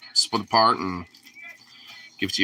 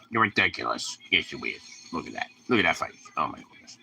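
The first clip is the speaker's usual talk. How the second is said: soft cooing; 8 semitones lower, 8 dB quieter than usual. Real, not acted. Cooing softly at the dog.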